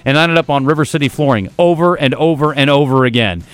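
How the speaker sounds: upbeat sponsor read in the host's own voice; live radio ad read. Acted. Radio host pitching a local sponsor to his listeners, upbeat ad read. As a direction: sell the flooring store to the listeners.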